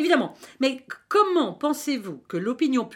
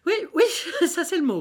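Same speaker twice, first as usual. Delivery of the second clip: laughing; 4 semitones higher, faster than usual. Acted. Amused agreement with a laugh.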